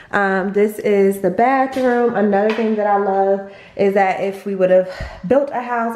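breathless from climbing stairs; out of breath. Real, not acted. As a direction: talk while catching your breath. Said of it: "I'm out of breath, y'all".

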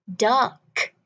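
"Duck" with the final k clearly released; sounded final k. Shown as a demonstration. Teacher models the ending, "Duck" with a released k. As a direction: let the k at the end of "Duck" be heard. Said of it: "Âm cuối mình có phát âm k".

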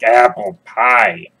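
slow, drawn-out groan of disbelief; mock defeat. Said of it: "And you're like".

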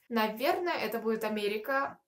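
ordinary talk

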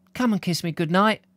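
high-pitched mother at bedtime; mum's voice. Acted. Voices Percy's mum calling to him.

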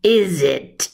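slow, drawn-out serpent voice; sly snake. Acted. The snake mocking Patrick for coming late, slow snake voice. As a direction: savour every word like a snake. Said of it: "he hissed".

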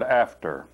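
"after." set apart and leaned on; stress on after. Shown as a demonstration. Preacher singling out "after." for his congregation, stressed. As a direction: give "after." a firm, falling stress. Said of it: "I make a strong emphasis on the word".

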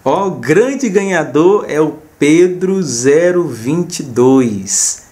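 drawn-out, building winner reveal; excited announcement. Real, not acted. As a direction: announce the winner like a game show host.

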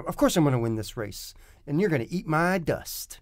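matter-of-fact. Shown as a demonstration. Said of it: "give us a taste".

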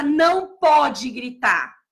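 drawn-out prohibition, slow; mock the wrong way, a slow scold; slow scolding quote. Teacher mimicking an adult scolding a child, slow and stern. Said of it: "Eu não posso falar pra criança".

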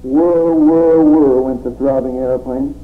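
rhythmic, declaiming poem read. Acted. Poet reading his surreal poem to the audience, declaiming.

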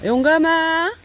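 called out loud and high across the yard; calling out. Real, not acted. Calling the cat Yonggam over to eat, loud and high. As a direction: call the cat to come and eat.

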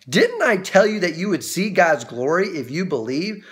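understated reproachful question; mild, emphatic chiding; pointed reproach. Acted. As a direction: press it home as a rebuke. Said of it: "I can just hear his tone".

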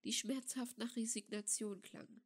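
plain reading voice

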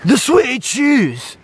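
high, drawn-out wail of dismay; horrified cry. Real, not acted. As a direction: shriek it in mock horror. Horror at shoes in water.

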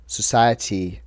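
a hint of a tech boss selling green ideas; Elon Musk. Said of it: "I'm Elon Musk".

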